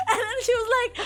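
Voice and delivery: high, loud words through laughter; laughing while talking. Real, not acted. Laughing while starting to quote the aunt. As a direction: talk through a fit of laughter.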